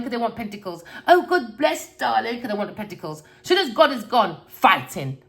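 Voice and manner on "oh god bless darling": high, sugary mock politeness; prim and proper. Mocking people fawning over God for money, in a high, prim put-on voice. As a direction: simper it like a fake-sweet guest. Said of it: "everyone acts so prim and proper".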